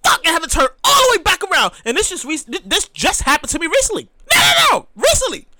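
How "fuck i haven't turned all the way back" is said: high startled curse; comic panicked realization; mock dismay. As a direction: realize the mask is gone. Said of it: "be like".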